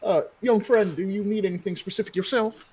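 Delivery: lightly voiced courteous mayor; smooth mayor. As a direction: play the polite, slightly oily mayor.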